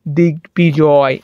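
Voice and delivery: slow দিগ্বিজয় as "dig-bijoy"; b unchanged. Shown as a demonstration. Teacher adding an example, slow "dig-bijoy" for দিগ্বিজয়. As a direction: split দিগ্বিজয় and sound the b. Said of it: "কোনো কিছু পরিবর্তন হবে না".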